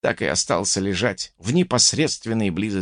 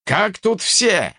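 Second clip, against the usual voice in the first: raised, drawn-out anxious call; slightly agitated; 8 semitones higher, slower than usual. A narrator's reading. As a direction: call out a little worried, pitched high. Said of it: "чуточку взволнованный голос Жопа". (слегка взволнованно)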